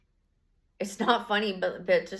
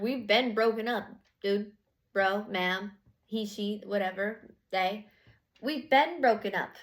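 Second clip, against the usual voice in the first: exasperated; slower than usual. Retold or imitated. Voicing you telling off partner.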